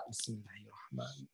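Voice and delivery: small-voiced recitation; suara kecil. Shown as a demonstration. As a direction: recite it softly, keeping the hiss. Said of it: "kecil misalkan suaranya". (baca dengan suara kecil)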